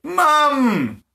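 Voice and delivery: a high mock wail for mum; Harold, bottom burning, a high comic cry; hollering for mum. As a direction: call out like a scorched kid. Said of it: "Harold hollered".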